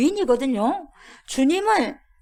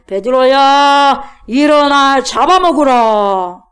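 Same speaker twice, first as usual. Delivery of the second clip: slow, loud and solemn divine call; God's voice; 10 dB louder, much slower than usual. Acted. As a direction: call out like God from heaven, drawn out. God's voice in sermon retelling. (하나님의 음성으로 느리고 크게 부르듯이)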